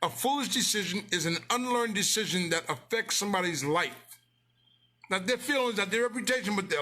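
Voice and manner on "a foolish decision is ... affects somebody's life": deliberate, word by word; slow, emphatic repeat; said slowly. Shown as a demonstration. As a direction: spell it out slowly for them. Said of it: "Let me say it slowly".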